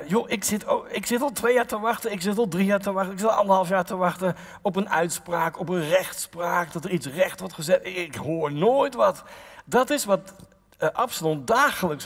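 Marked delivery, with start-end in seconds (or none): 0.1-9.2 complaining citizen. Retold or imitated. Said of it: "zeg maar even in gewoon Nederlands".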